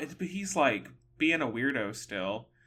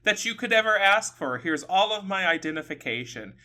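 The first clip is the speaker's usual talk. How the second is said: imitated fed-up demand, starting high and easing down; mildly exasperated, pressing for an answer; retold flustered exasperation; 4 semitones higher than usual. Woman retold demanding what the staring man wants, mildly flustered. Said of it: "getting herself all flustered about this".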